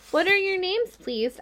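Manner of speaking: a touch of quivering joy; eager and mildly trembling. Acted. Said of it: "trembling with joy".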